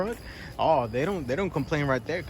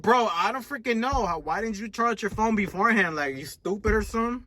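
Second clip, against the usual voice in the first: exasperated retort; 8 semitones higher than usual. Retold or imitated. His retort to the passengers.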